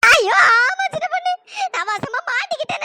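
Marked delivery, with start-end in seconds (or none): 0.0-1.3 slow anguished cry. Acted. Stuck girl cries out.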